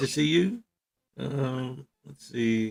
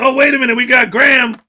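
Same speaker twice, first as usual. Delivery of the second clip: raised, excited milestone call; hype announcer; 4 semitones higher than usual. Acted. Host spotting Graham's membership milestone, hype announcer. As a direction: break in with a happy announcement.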